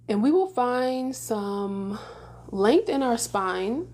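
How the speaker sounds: unhurried meditation guidance with long pauses; guided meditation. Real, not acted. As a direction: gently lead listeners into stillness, leaving space between phrases.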